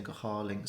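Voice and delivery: "go hálaing" ends in a forward ing sound; "go hálaing" with the Cork ng ending, soft; the Cork way of saying "go hálaing". Shown as a demonstration. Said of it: "you can hear it here in Cork sounding".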